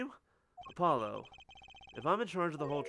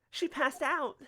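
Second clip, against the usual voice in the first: laughing; 8 semitones higher, slower than usual. Acted. Reacting to fainting client.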